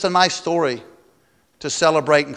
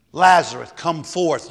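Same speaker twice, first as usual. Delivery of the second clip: commanding call; 3 dB louder than usual. Acted. Jesus calls Lazarus again.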